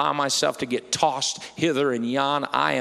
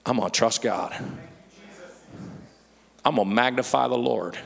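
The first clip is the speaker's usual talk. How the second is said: calm trust; 2 semitones lower, 3 dB quieter than usual. Acted. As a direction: settle into calm faith. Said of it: "Or you can be".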